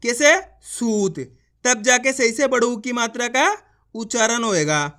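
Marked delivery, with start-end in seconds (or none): 0.7-1.2 सूत with ऊ drawn out; long u demo. Shown as a demonstration. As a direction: pull out the ऊ in सूत. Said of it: "खींच के उच्चारण करेंगे".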